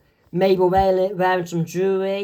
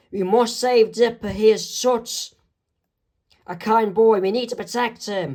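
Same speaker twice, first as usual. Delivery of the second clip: alarmed; 4 semitones higher than usual. Acted. Wendy alarmed about Dipper.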